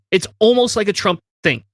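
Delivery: usual speaking voice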